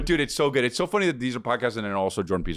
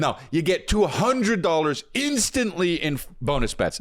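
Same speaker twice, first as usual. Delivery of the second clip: punchy, drawn-out sponsor pitch; hyped ad read; 5 semitones higher than usual. Acted. Host pitching sports betting to listeners, hyped ad read. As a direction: sell it with big stressed key words.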